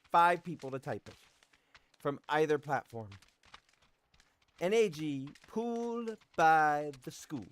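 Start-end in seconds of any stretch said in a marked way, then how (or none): 4.6-7.5 slow, spelled out for the chat; slow dictation. Shown as a demonstration. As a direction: read it out slowly and clearly. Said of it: "For a chance to win a free random Steam key".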